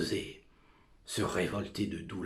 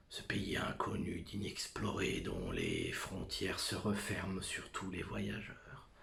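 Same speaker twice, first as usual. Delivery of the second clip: fearful whisper; 5 dB quieter than usual. Acted. Soliloquy on unknown country.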